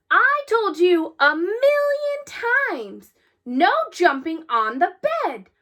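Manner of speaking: a father who has said it a million times, telling off his son; stern father scolding. Acted. Father scolding son about bed.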